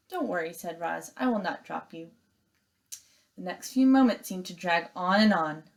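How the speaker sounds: expressive read-aloud storytelling; story narration. A narrator's reading. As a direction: read it like a class novel. Teacher reads novel aloud.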